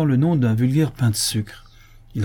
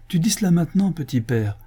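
high-pitched daughterly protest; protesting cry; 7 semitones higher than usual. A narrator's reading. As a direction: exclaim high, then drop on the address. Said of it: "s'écria Esther". (protestation vive et aiguë)

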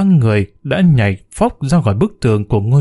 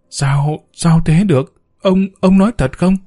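breathless shock; 5 semitones higher than usual. Acted. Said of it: "nói không ra hơi".

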